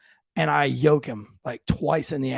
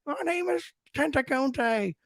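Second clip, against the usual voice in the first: lightly put-on slow defiant voice; mock Roots voice; 10 semitones higher, 5 dB quieter, slower than usual. Son plays a Roots character, slow and put-on. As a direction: drag it out like a film slave. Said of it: "he was screaming".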